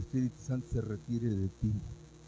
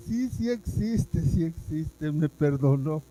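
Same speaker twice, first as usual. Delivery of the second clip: loud, emphatic joyful insistence; a touch of elated wonder; joyful declaration; 5 dB louder, slower than usual. Retold or imitated. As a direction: declare it, amazed and glad.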